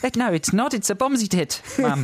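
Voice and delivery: put-on protesting child in an Australian accent. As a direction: answer Mum back in broad mock Australian. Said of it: "read that in an Australian accent".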